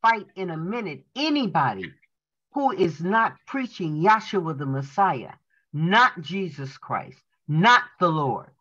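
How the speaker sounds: emphatic, measured preacher's reading; enthusiastic reading. Acted. Student reads the doctor's sermon to the congregation, with enthusiasm. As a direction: read it aloud with enthusiasm, phrase by phrase. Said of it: "read it with enthusiasm".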